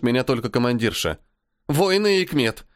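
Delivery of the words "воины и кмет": quick answer. Acted. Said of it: "В темпе отвечает Лукерья".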